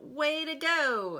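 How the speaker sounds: high, slow, loud cheer; cheering shout. Acted. Other ducks cheer the backstroking duck, high slow shout. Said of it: "The other ducks shout".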